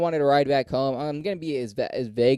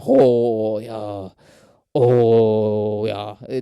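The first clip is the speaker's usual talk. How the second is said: low, loud, drawn-out mock Asian accent; 4 semitones lower, 7 dB louder, much slower than usual. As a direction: put on a crude Asian-accent caricature, deep and stretched. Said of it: "that fucking accent".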